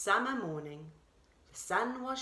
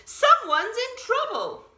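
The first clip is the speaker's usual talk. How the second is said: higher, louder urgent call; 12 semitones higher, 9 dB louder than usual. A narrator's reading. Deer calls to Bear while running, urgent and loud. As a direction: call it out as you run. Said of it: "Deer called".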